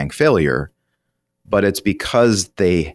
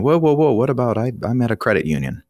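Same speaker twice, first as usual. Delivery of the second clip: worried listener; 6 semitones higher than usual. Retold or imitated. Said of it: "some of you are listening right now going".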